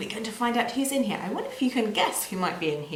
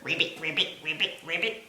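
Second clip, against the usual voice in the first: frog ribbits; 3 semitones lower, faster than usual. Shown as a demonstration. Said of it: "like a frog".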